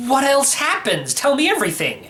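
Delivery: put-on a kid hungry for every detail; eager boy.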